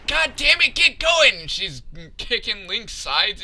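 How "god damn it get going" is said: high, loud nagging; mock impatient female character. Rider kicks the wolf to go faster, impatient mock yell. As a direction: urge him on in a raised put-on voice. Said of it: "She's like".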